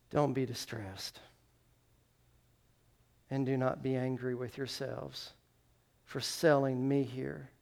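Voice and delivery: gentle reassurance. Acted. Joseph comforting the brothers who sold him, gently reassuring.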